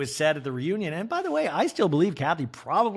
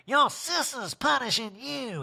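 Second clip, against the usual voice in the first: mock cold Erika; 10 semitones higher, slower than usual. Voicing Erika slow.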